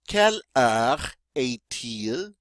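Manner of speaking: "Quelle heure est-il?" drawn out with a rise at the end. Shown as a demonstration. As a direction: say "Quelle heure est-il?" slowly so students can follow. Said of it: "And this means".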